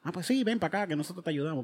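lightly put-on Irish accent, soft and casual; an Irish mechanic, barely voiced; mock Irish accent. Mechanic offering help, in a faint Irish accent. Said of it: "Hiciste el acento de la, del dude".

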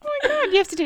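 fast, high, laughing. Real, not acted. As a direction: gush it out laughing. Laughing after unison success.

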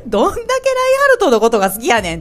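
high, amused comic retort; mock exasperation. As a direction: tease with an incredulous Kansai-style jab. Comic retort to the character's devotion. (笑い混じりの高い声でツッコミ)

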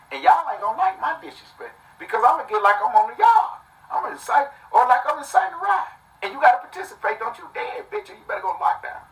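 high-pitched, worked-up warning; heated threat. Real, not acted. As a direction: threaten them, voice riding high with agitation. Threatening listeners with his disrespect.

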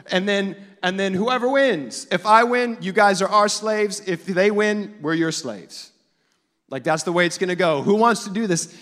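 loud cocky trash talk; boastful giant. Retold or imitated. Goliath threatening the Israelites, loud and cocky. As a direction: throw the threat out big.

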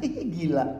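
soft giggling scoff; God snickering. Acted. God in heaven laughing at proud humans, soft snicker. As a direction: snicker quietly at human folly.

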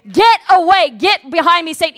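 loud command to get behind; forceful rebuke; shouted command. Acted. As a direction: bark it out with authority. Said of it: "he shouted".

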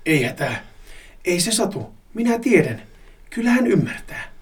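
high, creepy half-hushed voice; deranged whisper. Acted. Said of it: "kuiskaa korvaani mielipuolisella äänellä". (mielipuolinen kuiskaus korvaan)

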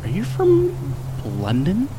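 high mock American voice; mock American asking. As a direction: mimic an eager American asking about London. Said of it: "I'm over the fact of".

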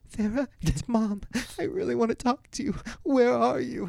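high, loud pleading mom voice; high-pitched mock maternal plea; mom's voicemail impression. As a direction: imitate a mother calling out on voicemail. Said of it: "you hear a voicemail like".

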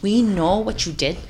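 mock Midwest confrontation voice; Midwest accent. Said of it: "Your Midwest accent is, like, it's very on point".

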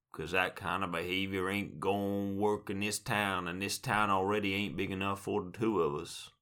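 lightly voiced Wild West gunslinger; cowboy voice. Mock Wild West showdown line.

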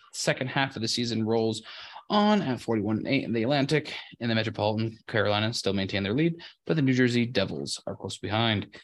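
measured sports-desk news delivery; sports news read. Acted. Reads sports news segment.

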